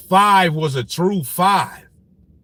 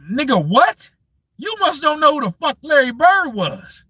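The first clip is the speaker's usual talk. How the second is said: heated rant; 6 semitones higher than usual. Real, not acted. Defending Larry Bird to chat.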